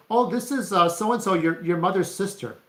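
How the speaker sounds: high-pitched aunt introducing herself; imitated aunt. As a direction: put on the aunt's high, loud greeting voice. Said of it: "And then she would say".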